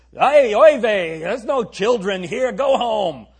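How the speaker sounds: hammed-up Brooklyn Jewish mom shooing them home; playful Brooklyn Jewish accent, drawn out. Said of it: "Can't you picture a Brooklyn Jewish mom".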